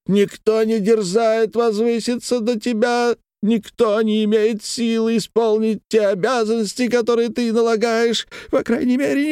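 put-on high pitched drunk orator's rant; indignant drunken tirade. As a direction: denounce him with bitter scorn.

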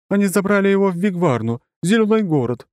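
high, loud shouting mother; shouted. A narrator's reading. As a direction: shout it out to them. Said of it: "выкрикнула беловолосая мамаша".

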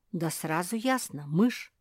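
plain reading voice

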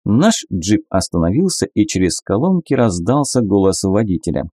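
usual speaking voice

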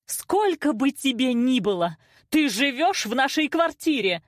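high, emphatic rebuke; angry scolding. A narrator's reading. Mother reminds daughter whose flat it is, angry. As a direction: lay down the law, high and heated.

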